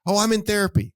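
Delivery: mock excuse. Mocking someone's excuse.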